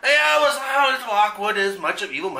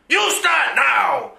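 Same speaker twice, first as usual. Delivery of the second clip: slow, shouted order; villain's command; 3 semitones higher, much slower than usual. Acted. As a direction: bark the order, dragging it out.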